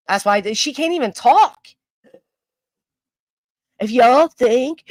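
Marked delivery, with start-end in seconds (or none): 3.8-4.8 slow, heaving mock-breathless voice. Mocking a rival's breathless podcast talk, slow and heaving. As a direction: drag it out like you can't catch your breath. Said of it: "what are you out of breath from?".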